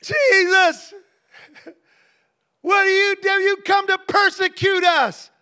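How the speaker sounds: loud screaming demon, strained and rough; the demon crying out at Jesus; a loud shrieking demonic voice. Retold or imitated. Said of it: "the demon comes out".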